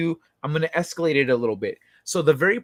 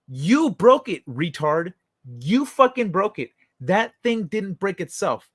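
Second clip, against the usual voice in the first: scolding friend; 4 semitones higher than usual. Retold or imitated.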